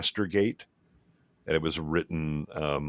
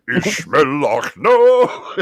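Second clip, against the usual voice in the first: laughing; 11 semitones higher, 12 dB louder, much slower than usual. Real, not acted. Joking quote broken by laughter.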